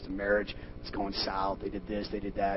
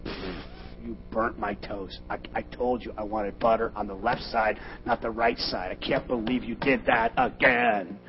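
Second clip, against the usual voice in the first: complaining spouse; slower than usual. Retold or imitated. Spouse voiced complaining over toast.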